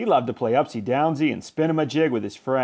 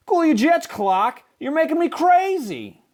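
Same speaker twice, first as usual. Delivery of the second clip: high, exasperated fish voice; exasperated friend; 14 semitones higher than usual. A narrator's reading. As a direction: beg him to calm down. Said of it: "Even his best friend Joey Mackerel said".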